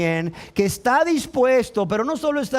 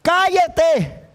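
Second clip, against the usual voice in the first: high, loud order to hush; acted angry shushing; crowd's rebuke; 7 semitones higher, 4 dB louder, much slower than usual. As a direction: snap at him to shut up. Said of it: "La gente le decía".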